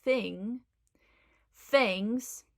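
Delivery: "thing", "things" said with F; Cockney th-fronting. Shown as a demonstration. Teacher breaking down the phrase, "things" as Cockney "fings". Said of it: "the F at the beginning".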